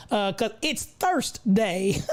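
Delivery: slow, laughing pun. Real, not acted. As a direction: say it through laughter. Joke, laughing.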